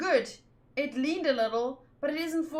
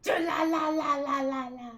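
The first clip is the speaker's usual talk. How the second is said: calling out. Acted. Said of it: "It hurts my throat".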